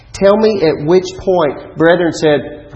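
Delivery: rising preacher challenge. Real, not acted. Preacher challenges the congregation, slow and loud. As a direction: drive each word home slowly.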